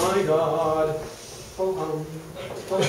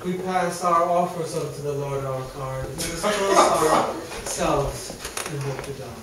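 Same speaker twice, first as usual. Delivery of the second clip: preacher address. Acted. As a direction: address the congregation, then let it sink. Addresses congregants.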